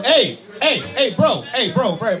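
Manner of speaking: real interrupting call to a heckler. Real, not acted. Calling out a noisy audience member.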